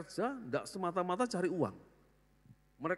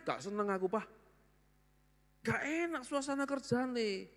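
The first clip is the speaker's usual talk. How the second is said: grown son explaining; 7 semitones higher than usual. Retold or imitated. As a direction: explain calmly why you left. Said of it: "Papa nih bingung".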